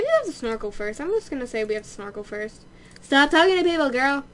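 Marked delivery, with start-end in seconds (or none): 3.0-4.2 nasally. Real, not acted. Player telling her Sim to stop talking, nasally. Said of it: "that sounded really nasally like this".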